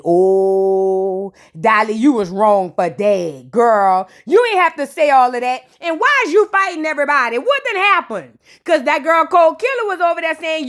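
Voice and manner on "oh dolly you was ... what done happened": mock scolding. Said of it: "own mock reaction, lower voice".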